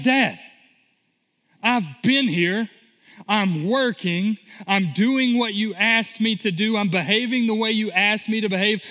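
a slightly hammed-up grievance, pressing every word at Dad; livid older brother. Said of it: "he's livid".

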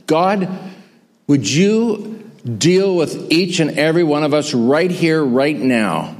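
earnest pastoral prayer voice, rising at the appeals. Acted. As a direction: pray over the standing congregation. Closing prayer.

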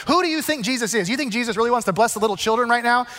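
fast, mildly scolding challenge; acted confrontation. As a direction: confront them in a quick mock rebuke. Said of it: "Like, they're confronting them".

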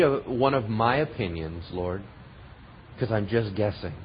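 low, softening pastoral prayer. Real, not acted. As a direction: lead the congregation gently in prayer. Leads congregation in prayer.

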